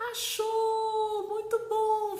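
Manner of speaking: high, loud delighted cheer; celebrating with child. Shown as a demonstration. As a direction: sing out the praise to a child. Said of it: "Festeja com ela".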